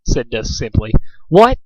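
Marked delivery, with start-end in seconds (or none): 1.3-1.6 shocked. Acted. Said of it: "shell-shocked".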